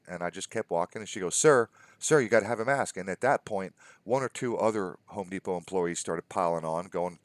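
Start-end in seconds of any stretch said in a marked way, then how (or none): 1.4-3.0 raised insistent "sir, sir"; calling after. Retold or imitated. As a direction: call out insistently after him. Insistent worker calling after him.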